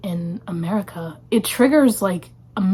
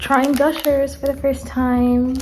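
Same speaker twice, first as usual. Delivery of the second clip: mock announcer; 3 semitones higher, slower than usual. Mock show title.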